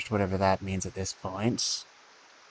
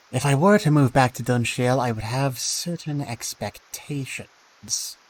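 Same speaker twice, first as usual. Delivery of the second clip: character voice; 3 semitones higher, 5 dB louder than usual. Acted. Player voices own character.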